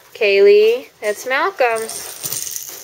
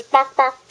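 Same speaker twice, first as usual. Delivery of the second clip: chicken clucking; 2 semitones higher than usual. Shown as a demonstration. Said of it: "Chicken says".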